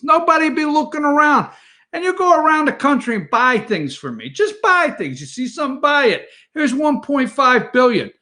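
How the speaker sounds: hammed-up Chinese boss with a Bronx accent; mock Brooklyn Chinese accent. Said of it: "this is my, uh, Brooklyn Chinese accent".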